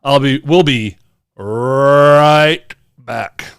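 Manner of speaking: slow, strained, busting to pee; needing the toilet. Real, not acted. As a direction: hurry off, desperate for the toilet. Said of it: "I have to go to the restroom so bad".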